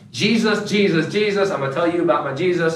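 high, bright excited gush; overeager zeal. Retold or imitated. Newly saved churchgoer telling everyone about Jesus, high and excited. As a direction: gush like a new convert. Mocking new believer's zeal.

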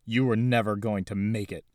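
yelled. Acted. Harold yells at Isaac pinned to the wall, angry yell. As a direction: yell it while slamming him. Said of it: "he yelled".

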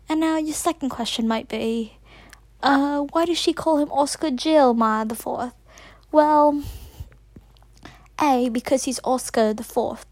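an American girl holding a mock British accent; put-on British accent. Kid podcaster dedicating her show to Oscar, British accent. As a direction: keep up a playful fake British accent all the way. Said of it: "speak in a British accent 'cause he's never heard my real voice".

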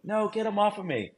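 high-pitched mock pleading; imitated protest. Bitten man refusing the handler, high imitated protest. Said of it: "we're just going back and forth".

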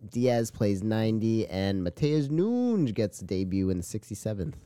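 sports headline read, slowing toward the end; match recap read. Acted.

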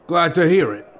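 kindly, lightly voiced guard; a touch of gentleness to calm the boy; gentle. A narrator's reading. Guard soothes shaken Link, gentle. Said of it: "gentleness to the man's tone".

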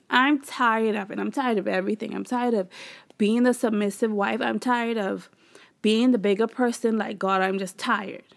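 retold weary venting, piling up complaints; mildly exasperated replay of a rant; fed-up rant. Wife venting about being the bigger person, fed up. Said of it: "I was over it all this week".

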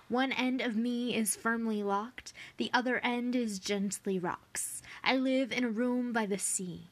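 measured, lilting poetry read; gentle poetry recital; poem reading. Acted. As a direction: read the verse out to listeners. Reads a riddle poem aloud.

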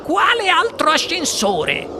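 high, drawn-out question; stretched, high-pitched alarm; alarmed cry. A narrator's reading. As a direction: cry it out in rising panic, without much volume. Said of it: "gridò la signora T V".

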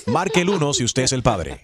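lightly done automated recording; phone menu voice. Acted. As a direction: read it like a robocall message. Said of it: "llamada automatizada".

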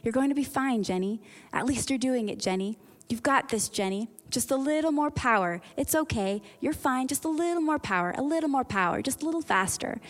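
lightly imitated driving instructor's reassurance; encouraging. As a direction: coax gently in short, lifted phrases. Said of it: "He was so encouraging".

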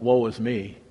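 soft, low confession of shame; quietly humbled, owning the guilt; hushed penitent lament; remorseful lament. Acted. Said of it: "like Isaiah, they felt".

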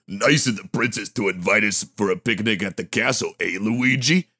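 Italian plumber impression, playful; Mario voice. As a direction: do a cheery Mario.

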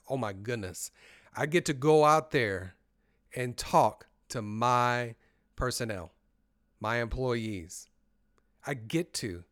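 excitement with loud, drawn-out punches; positive excited self-talk. Shown as a demonstration. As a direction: relish the chance, leaning on key words. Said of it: "I'm excited just thinking about it".

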